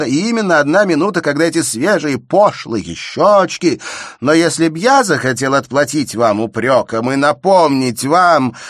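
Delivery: high, loud heated rush; agitated outburst. A narrator's reading. Shubin agitated before storming out of the arbour, loud and high. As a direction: lose control and storm off.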